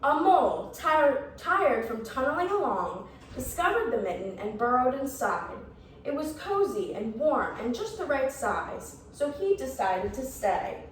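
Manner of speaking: lively, measured storybook reading; story narration. A narrator's reading. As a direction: read a picture book to young children. Reads a picture book to children.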